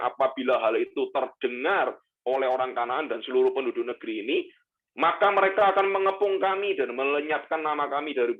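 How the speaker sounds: measured Bible reading aloud; scripture reading. Acted. Pastor reading Joshua's complaint to God, measured and solemn. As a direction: read the passage to the congregation.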